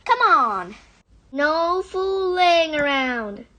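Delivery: loud urgent command; urgent order. Acted. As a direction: bark them into moving. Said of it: "he ordered".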